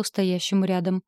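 ordinary delivery

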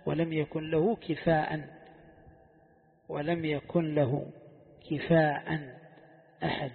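slow recital with كفاء as kifa'an; rare variant reading. Shown as a demonstration. Teacher demonstrates the rare reading, slowly, كفاء as kifa'an. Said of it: "وهذا في الشواذ".

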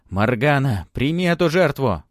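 high, loud desperate call; desperate shout. Acted. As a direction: cry out in despair, loud. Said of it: "от отчаяния ... крикнул".

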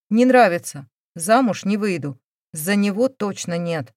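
loud, blunt refusal. Acted. Elena to her mother, refusing the groom, loud and blunt. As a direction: slam the door on the match, loudly.

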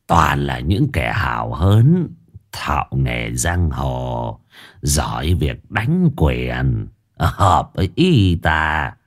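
low, slow tipsy official's drawl; drunken slurred drawl. Acted. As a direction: slur it like a drunk lord. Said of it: "dở cái giọng lè nhè, cứ như là người chưa tỉnh cơn rượu".

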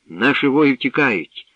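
a loud, high cry of despair, slowed; desperate cry. A narrator's reading. Youth cries in despair as warriors flee, loud desperate cry. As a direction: cry out that the army is fleeing. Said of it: "у відчаї крикнув Зарислав".

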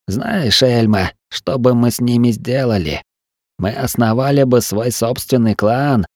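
rambling feverishly; feverish wounded man. Acted. Til dreams of treasure.

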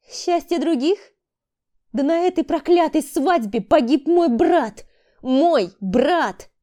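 громкий надрывный крик, медленно; выкрикнуть горе и злость; гнев. Acted. Рита в гневе о погибшем брате. (Рита кричит о погибшем брате, с надрывом)

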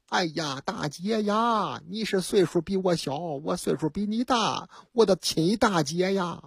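butter her up quietly like a smooth swindler; fawning flattery. Retold or imitated. Conman flatters the woman. (骗子压低声音的谄媚腔调)

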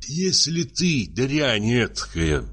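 slow, choked-up threat; slow, tearful fury, held in; muffled tearful voice. Acted. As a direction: threaten slowly as if close to tears. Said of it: "заговорил он глухим, плачущим голосом".

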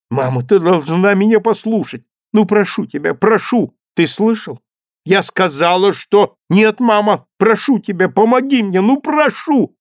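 put-on high, loud begging child; narrated boy pleading insistently. A narrator's reading. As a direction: beg mother again and again.

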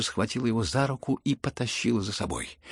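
ordinary delivery, nothing marked

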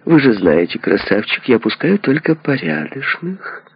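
bristle, stretching out the last words; angry. A narrator's reading. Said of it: "Тётушка Милли рассердилась".

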